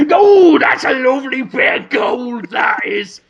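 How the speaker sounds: a delighted mock crook testing gold; gleeful grave robber. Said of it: "biting it and going".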